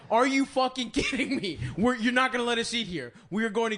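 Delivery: hammed-up outrage at the waiter; retold shouting. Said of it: "we're shouting".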